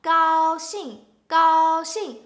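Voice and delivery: 高兴 repeated loudly, with a high flat gao and a falling xing; tone drill, loud. Shown as a demonstration. Teacher drills 高兴 for learners: loud, level then falling. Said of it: "first tone and fourth tone".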